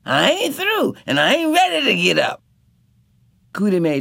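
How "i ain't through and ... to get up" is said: high, indignant refusal; retort. A narrator's reading. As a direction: refuse to budge, sharply. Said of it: "Sop retorted".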